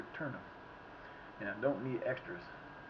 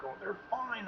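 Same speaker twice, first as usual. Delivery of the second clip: imitating dad; 9 semitones higher, 5 dB quieter, slower than usual. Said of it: "Dad's like".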